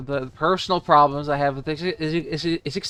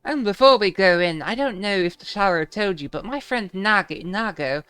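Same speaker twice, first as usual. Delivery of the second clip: lightly voiced game characters, higher; 5 semitones higher than usual. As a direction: read the lines a bit higher. Voicing game dialogue.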